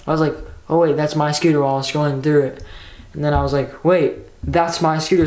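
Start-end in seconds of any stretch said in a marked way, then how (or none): 0.7-1.6 casual, passing remark at usual pitch; not yet registering. Retold or imitated. Scrolling the app, spots own scooter, not yet registering. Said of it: "didn't really take it in yet". 3.8-5.3 slow, mildly startled double take; dawning realisation. Retold or imitated. Retelling the moment of finding the stolen scooter, mild shock. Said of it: "So I'm, like, freaking out".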